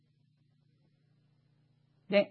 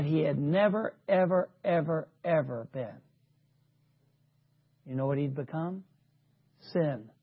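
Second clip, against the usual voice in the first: grave hush; 7 semitones lower, 11 dB quieter than usual. Real, not acted. Preacher telling congregation what Jesus became, in a grave hush. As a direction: voice sinking very low and soft.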